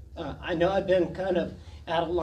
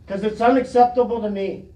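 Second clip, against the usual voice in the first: louder, hammering it home; forceful retort; 6 dB louder, faster than usual. Real, not acted. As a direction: throw it back at him. Confronting official.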